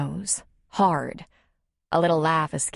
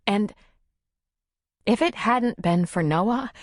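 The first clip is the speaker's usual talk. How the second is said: higher, earnest woman's voice; confiding Nora; 5 semitones higher than usual. Acted. Nora telling Tom of being left, earnest. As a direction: recount the relief earnestly, pitched up. Character dialogue.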